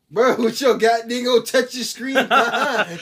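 loud, slow, laughing jab; cracking up while mocking; laughing tease. Real, not acted. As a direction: tease him through laughter. Laughing teasing friend.

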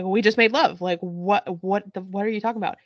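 half-hearted imitation of shocked yelling; retold scream. Podcaster retells Annie yelling at Aaron, mild mock outrage. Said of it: "she's screaming".

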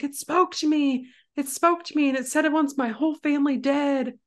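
high-pitched, hurried retelling of hysterics; imitated sobbing panic. Inconsolable girl tells her parents, imitated high-pitched panic. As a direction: mimic an inconsolable girl, no real crying. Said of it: "She's sobbing".

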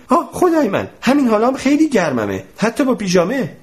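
a high, hopeless wail; despairing moan. Acted. Mr Tompkins moans to the professor that he is already too hot. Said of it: "ناامیدانه نالید".

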